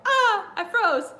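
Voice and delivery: high, slow, loud wail of stage fright; mock panic. A wrestler frozen on the live mic, high panicked wail. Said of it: "you're like".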